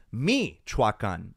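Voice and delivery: Michoacan stressed on the first i, a deliberately wrong reading; wrong stress demo. Shown as a demonstration. Showing the wrong stress on Michoacan. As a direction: put the weight on the opening Mi of Michoacan. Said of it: "if the accent were on the I at the very beginning".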